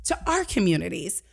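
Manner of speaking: drawn-out, impassioned appeal; retold emotional plea. Student moved in class, pleading for her communities, emotional. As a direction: plead for your people, stretching the words. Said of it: "I would get emotional".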